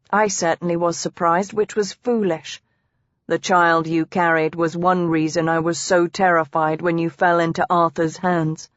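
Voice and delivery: lightly voiced husband, a touch low; understated, sober confession; a hint of a man admitting fear; confessing husband.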